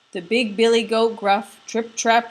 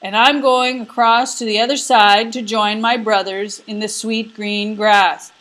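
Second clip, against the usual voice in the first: big goat bleating; 6 dB louder than usual. Acted. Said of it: "the third brother bleated".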